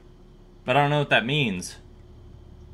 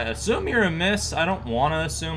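voice crack; 5 semitones higher than usual. Real, not acted. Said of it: "My voice just cracked like a prepubescent child".

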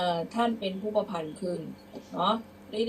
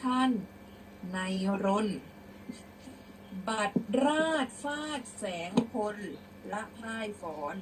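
prose-style recitation; 2 semitones higher than usual. Shown as a demonstration. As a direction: read out verse phrase by phrase. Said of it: "เดี๋ยวครูจะอ่านเป็นร้อยแก้ว".

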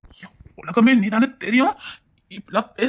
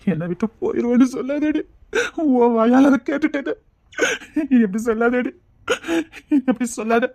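tearful plea. Acted. Husband begging his wife through tears not to leave.

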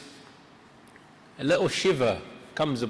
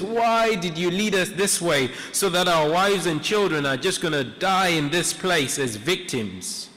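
raised-pitch mock complaint, easing off toward the end; imitated complaint; 3 semitones higher than usual. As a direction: act out a people complaining to their leader. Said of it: "They're complaining".

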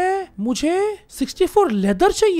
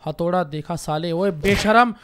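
mock angry yell; 4 semitones lower, 4 dB louder than usual. Yelling at a fleeing villager.

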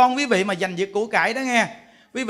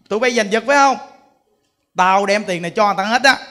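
scolding; 5 dB louder, faster than usual. Retold or imitated. Monk scolding quarrelling children.

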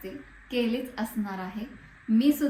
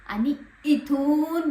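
nasal voice; 4 semitones higher, 5 dB louder, much slower than usual. Shown as a demonstration. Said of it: "फरक बघा तुम्ही इथे".

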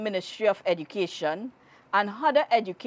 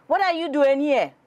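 bellowed; 6 semitones higher than usual. A narrator's reading. Old forest spirit confronts the hunters, a bellow. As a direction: roar at the trespassing boys. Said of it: "bellowed the old man".

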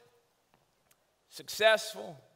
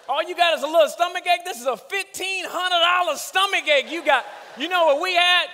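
put-on old-school parent scolding; 5 semitones higher than usual. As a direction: bark it like a stern old-school dad. Old-school parent scolding about doctor bills.

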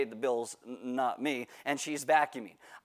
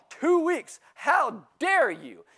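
high, loud mock outrage, dare drawn out slowly; retold indignant yell; 9 semitones higher, 5 dB louder, much slower than usual. Teen yells at his mom over being grounded, mock outraged. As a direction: yell it like a teen who thinks he has rights. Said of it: "So I yell".

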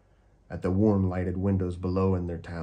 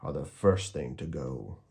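grinning; 5 semitones lower than usual. Acted. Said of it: "he grinned".

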